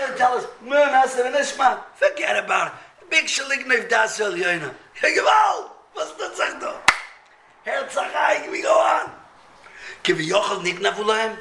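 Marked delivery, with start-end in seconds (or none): 0.6-4.7 excited. Acted. Voicing Chazal's surprising answer. 4.9-8.5 high astonished outcry. Real, not acted. Astonished exclamation.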